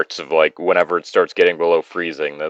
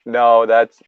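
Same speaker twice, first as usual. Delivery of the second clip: high, laughing and loud; laughing disbelief; 10 semitones higher, 7 dB louder, slower than usual. Real, not acted. Host laughing at the fedora with high, loud disbelief.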